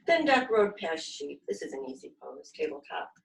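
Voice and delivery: put-on lively storybook reading for kids; reading to children. A narrator's reading. Yoga teacher reading a picture book to her class, lively. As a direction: read it out bright and animated for little ones.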